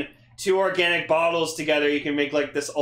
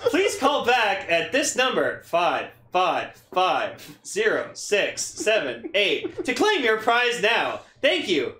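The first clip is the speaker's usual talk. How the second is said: robocall voice; much slower than usual. Retold or imitated. Spam call voice.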